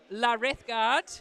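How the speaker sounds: slow, drawn-out mock French; French accent. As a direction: ham it up like a French chef.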